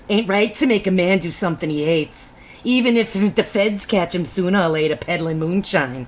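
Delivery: lightly put-on hillbilly auntie accent; mild mock hillbilly-Scottish accent. Shown as a demonstration. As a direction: read as a brogue-tinged Southern auntie. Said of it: "it's the auntie voice".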